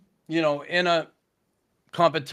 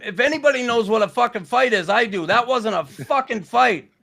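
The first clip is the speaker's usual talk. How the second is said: angry snap; 7 semitones higher than usual. Retold or imitated. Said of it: "I snapped on the ref".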